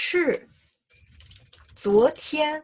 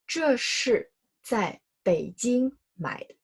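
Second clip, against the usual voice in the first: slow model sentence; 3 semitones higher, slower than usual. Shown as a demonstration. Teacher reads the second example slowly to students. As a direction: read slowly and clearly. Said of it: "the second sentence".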